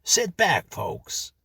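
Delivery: high, loud American welcome dropping to a breath; American MC inviting the listener in; American announcer. Acted. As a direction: beam it out like a cheesy host. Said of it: "said the same American voice".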